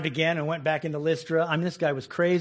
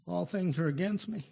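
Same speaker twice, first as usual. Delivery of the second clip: mock lament; 7 dB quieter than usual. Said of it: "Instead of".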